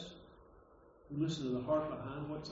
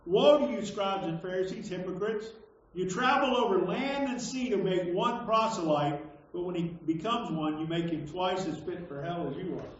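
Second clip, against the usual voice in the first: declaimed scripture reading. Acted. Preacher reads Jesus's woes to hypocrites, declaimed. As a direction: proclaim it as a rebuke from scripture.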